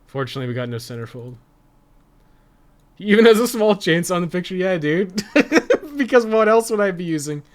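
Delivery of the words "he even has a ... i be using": talking through laughter, higher and louder; laughing. Real, not acted. Streamer laughs at the chainsaw in the picture, high and loud.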